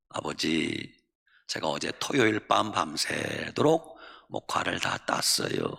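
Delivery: low, hushed dutiful daughter; acted humble, soft-spoken deference; polite, meek reply. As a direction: plead softly and respectfully with father. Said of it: "공손하게 대답합니다".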